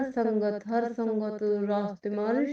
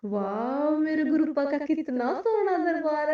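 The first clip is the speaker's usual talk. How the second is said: excited awe; 6 semitones higher than usual. Retold or imitated. Excited awe at the golden darbar.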